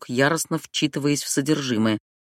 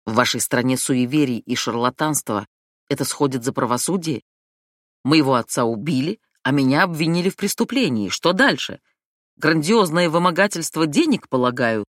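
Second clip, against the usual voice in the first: growing louder. Acted. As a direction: let the anger swell line by line. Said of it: "Его голос становился громче".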